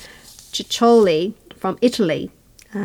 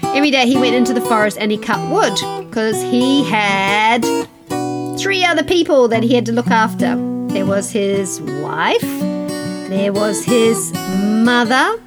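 put-on unhurried storyteller voice for children; story narration. A narrator's reading. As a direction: tell it gently to kids.

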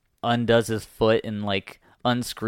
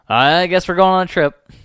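put-on grumpy old man; 8 semitones higher, 10 dB louder than usual. Voicing Eustace in recap.

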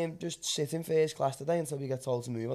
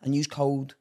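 sponsor read. Acted. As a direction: rattle through the brand blurb like a promo. Reads the sponsor spot.

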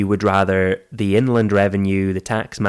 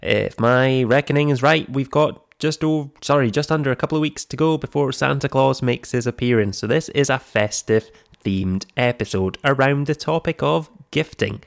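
slightly croaky, hoarse from a cold; 3 semitones higher than usual. Real, not acted. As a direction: talk through a mild cold croak. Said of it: "apologies for the slightly croaky voice".

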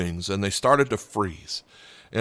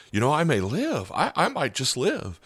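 higher, hushed dawning hope; hopeful bird, rising excitement; 5 semitones higher than usual. Retold or imitated. Preacher voicing the thawing bird as it realises it may live, lightly excited. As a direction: let the little bird realise it might survive. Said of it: "he began to be so excited".

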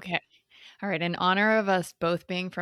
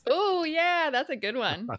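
put-on Boston accent; 7 semitones higher, slower than usual. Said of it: "in my best North Shore Boston accent".

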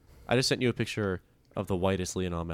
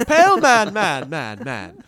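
joking shout; 11 semitones higher, 11 dB louder, much slower than usual. Pretend. Jokingly shouting the tease back.

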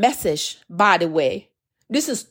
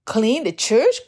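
derogatory tone; slower than usual. Retold or imitated. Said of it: "Kind of a derogatory tone that I asked the Lord".

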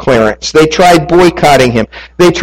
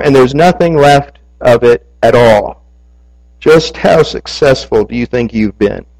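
haughty. Retold or imitated. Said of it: "the reporter said in a haughty voice".

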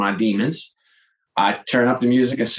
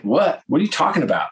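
higher-pitched disbelieving retort; mock incredulous; 6 semitones higher than usual. Husband arguing back at his wife, imitated incredulity. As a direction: act out a baffled husband's comeback.

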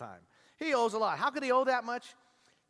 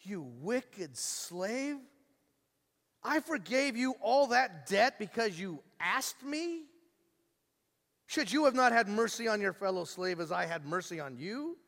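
stern rebuke; 2 semitones higher than usual. Retold or imitated. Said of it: "His lord summoned him and said to him".

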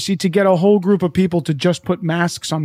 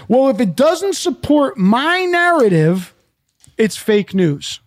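slow, self-important mimicry; mock arrogance; 3 semitones higher, slower than usual. Speaker imitates someone dismissing facts as fake news, arrogant. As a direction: put on the arrogant denier, drawing the words out. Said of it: "you gotta see the arrogance".

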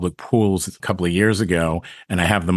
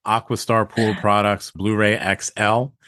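ordinary delivery

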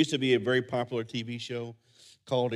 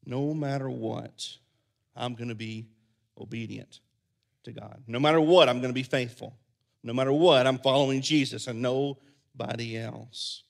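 resolute faith; 2 semitones lower than usual. Pretend. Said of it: "have a faith that says".

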